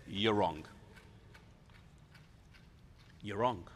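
low, understated contradiction; low-pitched, measured rebuttal; quiet defiance. Acted. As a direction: tell them so without raising your voice. Peter coolly contradicts Jesus.

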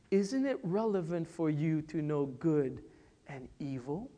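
hushed, coaxing tempter; low, soft tempter luring Eve; tempting devil. Retold or imitated. Preacher voices the devil tempting Eve, hushed. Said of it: "He says".

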